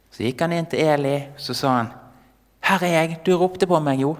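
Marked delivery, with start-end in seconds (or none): 2.6-4.1 lightly acted boy, higher voice; a touch of youthful insistence; insistent boy. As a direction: insist you were called, pitched up. Boy insists he was called.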